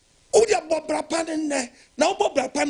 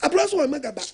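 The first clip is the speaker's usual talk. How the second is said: preaching shout; 2 semitones higher than usual. Acted. Preacher shouts blessing lines.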